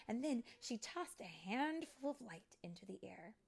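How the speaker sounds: animated read-aloud with lingering key words; storybook narration. A narrator's reading. Storyteller reading fairy tale to children, animated narration. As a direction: tell it dramatically to young children.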